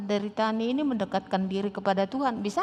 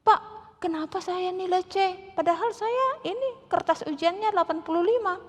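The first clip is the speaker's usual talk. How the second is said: bold question; 9 semitones higher than usual. Retold or imitated. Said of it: "Inang tanya".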